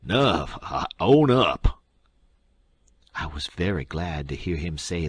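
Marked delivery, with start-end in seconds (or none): 0.0-1.8 slow, strangled and louder surrender; gasped out. A narrator's reading. The king choked by the Duke gasps out his confession, strangled and slow. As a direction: force it out through a choked throat. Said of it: "then he gasped out".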